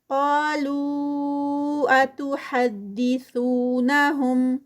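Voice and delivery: slow drawn-out tajweed recitation, vowels held; Quran recitation. Shown as a demonstration. Tajweed teacher reciting a verse for students, slow melodic recitation. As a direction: chant each word with its lengthening. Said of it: "لو پہ four counts".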